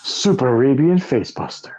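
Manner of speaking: lightly voiced announcer; game announcer. Continuing the wrestling-game bit, understated announcer voice. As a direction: call out a finishing move for a video game. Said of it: "doing the voice when they hit".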